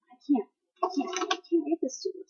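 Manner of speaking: very soft, timid mock pleading; small, quiet acted refusal; imagined reluctance. Imagines refusing to read aloud.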